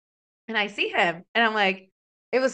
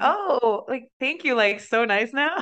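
higher, sugary mock thanks, lightly played; all sweet; 4 semitones higher, slower than usual. Stripper thanks the customer for a hundred, all sweet. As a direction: switch to sweet after the big tip. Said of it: "I was like, all sweet".

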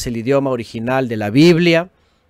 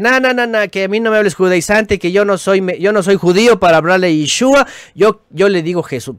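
mocking quote; 4 semitones higher than usual. Mocking stubborn objectors.

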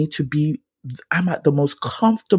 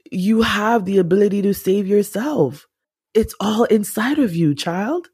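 a hint of a kind, wise God; lightly voiced higher, as God speaking to a child; gentle voice of God; 6 semitones higher than usual. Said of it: "God is just like".

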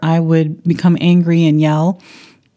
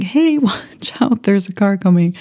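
mock warning yell; 3 semitones higher than usual. Mother calls to family ahead on a London street, mock yell. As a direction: imitate yelling a warning without real volume. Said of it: "almost screaming. I was like".

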